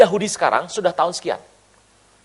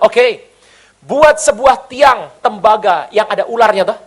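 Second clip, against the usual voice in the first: louder, slow commanding answer; voice of God; 4 semitones higher, 8 dB louder, slower than usual. Retold or imitated. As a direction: calmly give the order as God. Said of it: "Tuhan bilang". (suara Tuhan yang sedikit lebih keras dan lambat)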